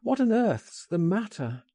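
high-pitched, urgent question; alarmed cry. A narrator's reading. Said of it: "I cried".

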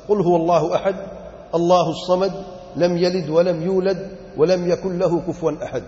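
measured Arabic verse recitation; Quran recitation. Acted. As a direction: recite the verses slowly, word by word. Recites Surah Ikhlas as answer. (قرآنی آیات کی تلاوت)

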